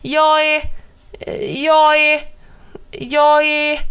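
high, loud repeated shout; a stubborn towel shouting at the birds; insistent shouting. A narrator's reading.

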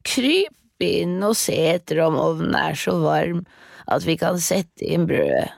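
lightly voiced luring witch; tricking witch. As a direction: coax her into the oven. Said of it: "sa hun".

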